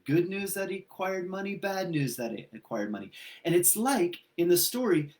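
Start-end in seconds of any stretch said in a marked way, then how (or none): 0.0-1.5 asked high on good news; hopeful good-news question. Shown as a demonstration. Speaker weighing the money as good news, high question. 1.5-3.1 gloomy bad-news question. Shown as a demonstration. Weighing good versus bad news.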